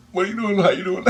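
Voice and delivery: high, flustered retold reply; laughing through a startled hello; startled greeting. Teller greets lady of light, startled and high.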